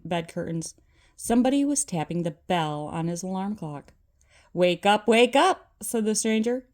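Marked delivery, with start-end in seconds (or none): 4.5-5.7 urgent wake-up call. Acted. Spirit wakes Scrooge.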